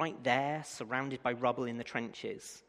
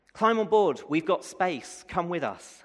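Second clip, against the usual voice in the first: mock call from a boat, higher and louder at first; 6 semitones higher, 7 dB louder than usual. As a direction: hail him from the boat over the water. Boat people calling to man.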